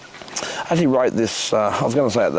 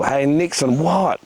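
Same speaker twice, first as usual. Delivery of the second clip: gurgling; 3 semitones higher, slower than usual. Acted. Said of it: "they gurgle".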